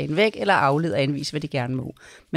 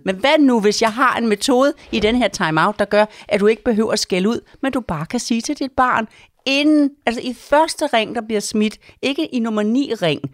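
excited emphasis; 5 semitones higher, 4 dB louder than usual. Real, not acted. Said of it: "pitching her method".

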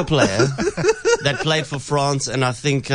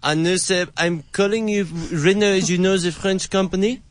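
put-on French accent; 3 semitones higher than usual. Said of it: "such a French accent".

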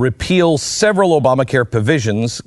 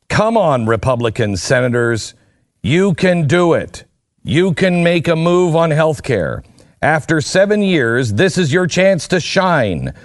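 lightly rallying read-aloud; 2 semitones higher than usual. Retold or imitated. Host reads the president's plea to senators, lightly rallying. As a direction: read it out like urging a team on.

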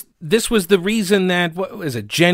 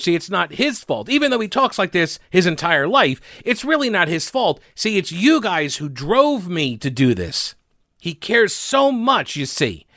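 sarcastic mock pity; 3 semitones higher than usual. Host mocking the politician's excuses, sarcastic sympathy. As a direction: pretend to excuse him sarcastically.

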